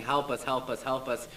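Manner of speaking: retold scream for help. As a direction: call out for help as if reliving it. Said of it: "I'm screaming".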